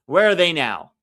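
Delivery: laughing mock. Real, not acted. Fan laughs at Italy's fall, mocking. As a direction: chuckle through the taunt.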